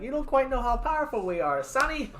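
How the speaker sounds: put-on high, wavering old lady. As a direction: voice a smug little old woman. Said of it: "I'm talking like an old lady".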